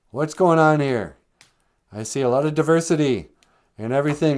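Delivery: loud, challenging cop voice; mock cop. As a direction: grill them like a suspicious street cop. Cop questions the rugged men.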